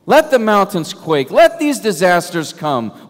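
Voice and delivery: loud, slow, ringing declaration; proclaimed defiantly. Acted. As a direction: thunder each "let" out like a challenge. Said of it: "if I were to translate it more literally".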